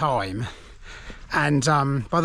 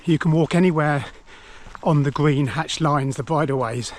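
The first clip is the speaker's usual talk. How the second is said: breathless from climbing a steep hill; out of breath, gasping between phrases. Real, not acted. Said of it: "excuse me, I'm out of breath".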